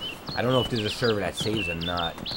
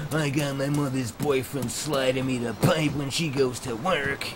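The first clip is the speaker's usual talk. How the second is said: lightly voiced sulky mock; a hint of the sulking kid; 3 semitones higher than usual. Mocking the server owner.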